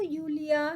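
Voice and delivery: Julia said YOO-lia, with a Y sound; German J as Y. Shown as a demonstration. Teacher corrects a German name, Julia as YOO-lia. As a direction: say the J in Julia like an English Y. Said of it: "not Julia, it's Julia".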